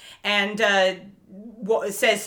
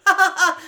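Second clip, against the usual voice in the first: high, loud hammed-up ha ha ha; forced fake laugh; 9 semitones higher, 6 dB louder than usual. Impostor laughing off his slip, hammed-up fake laugh. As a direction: laugh off his own bad joke. Villain covers a bad joke.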